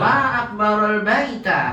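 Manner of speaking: long high MA, falling on BAITA; exclamation intonation. Shown as a demonstration. Teacher models wonder at a house for students, exclamatory intonation. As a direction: exclaim high at how big it is. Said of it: "kemudian intonasinya".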